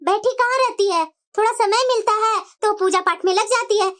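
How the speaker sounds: put-on a weary old lady sighing at a quarrel.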